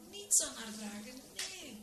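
high, stretched protest without shouting; mild shriek. A narrator's reading. Ladies protesting at the sheep's plan, mildly shrieking. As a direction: squeal the refusal, held back in volume. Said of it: "gilden de dames Groen".

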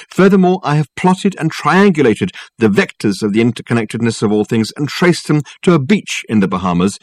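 pompous, persuasive detective talking up his case; lofty and smooth, selling it hard; Dirk's grand phone voice. Acted. Dirk continues on phone.

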